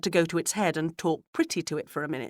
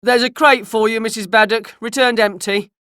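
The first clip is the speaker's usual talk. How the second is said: loud, raised country carrier calling out; carrier's voice; 5 semitones higher, 10 dB louder than usual. A narrator's reading. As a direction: call out a delivery as a carter. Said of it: "he suddenly heard the carrier's voice saying".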